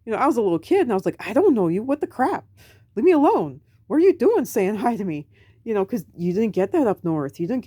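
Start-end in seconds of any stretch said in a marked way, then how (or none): 1.3-5.3 put-on annoyed kid. Kid annoyed at strangers greeting.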